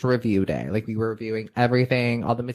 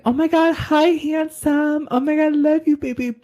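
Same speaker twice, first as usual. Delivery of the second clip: dog voice. Retold or imitated. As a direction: coo at the dog in a squeaky voice. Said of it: "everybody has, like, a dog voice".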